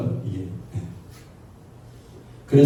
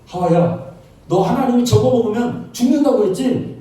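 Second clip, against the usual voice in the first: lightly voiced tempter, pitched higher; a mildly acted devil's challenge, raised pitch; devil tempting Eve; 8 semitones higher than usual. Devil to Eve about the forbidden fruit, mildly acted tempter. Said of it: "야, 마귀가 와서 지식을 바꿔요".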